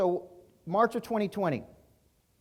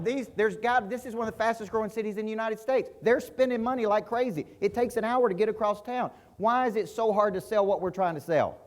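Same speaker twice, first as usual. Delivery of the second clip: higher, louder exasperated rant; frustrated outburst; 6 semitones higher, 3 dB louder than usual. Retold or imitated. Venting to his wife about the booming city, heated outburst. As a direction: let the frustration boil over. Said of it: "I am so mad".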